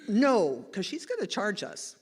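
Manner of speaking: loud warning shout, imitating the guide; sharp retold "stop" yell. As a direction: yell it at a charging animal, briefly. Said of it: "our guide starts yelling at her".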